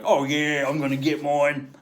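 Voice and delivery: lightly voiced sleazy gloat; a hint of a cocky creep claiming his prize; smug Wembley. Sleazy character bragging about getting his share, lightly voiced.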